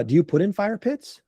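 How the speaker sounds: imitating a client's tentative inquiry; lightly acted curious client; curious question. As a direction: ask with a rising end.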